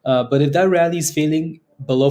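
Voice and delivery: loud, pushing hard; loud cocky finance bro. Real, not acted. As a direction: say it big and loud. Loud streamer rant.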